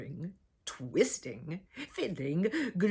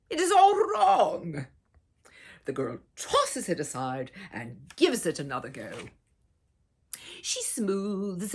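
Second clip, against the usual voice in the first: put-on gentle, expressive read-aloud for children; storybook narration; 3 dB louder than usual. A narrator's reading. Reading a picture book to little listeners, gently expressive. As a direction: tell it like a bedtime picture book.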